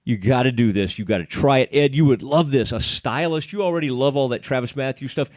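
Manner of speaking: upbeat sponsor read, selling it. Acted. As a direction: pitch the product like a radio spot. Host reads sponsor ad again.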